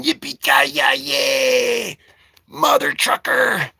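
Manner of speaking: drawn-out hammed-up movie yell; John McClane style mock yell. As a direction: stretch it into a slow mock war cry.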